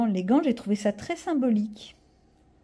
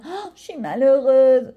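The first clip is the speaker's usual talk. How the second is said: drawn-out, hammed-up lament, slower and louder; mock misery; 3 semitones higher, 6 dB louder, slower than usual. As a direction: play the tragic little girl, half-joking. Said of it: "Personne n'y croit".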